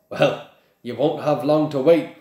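cheerful reply through a grin; grinning. A narrator's reading. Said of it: "grinned Hagrid".

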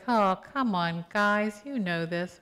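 weary teacher nudging the class; exasperated. Retold or imitated. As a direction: come on, you should know this. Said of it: "sort of like".

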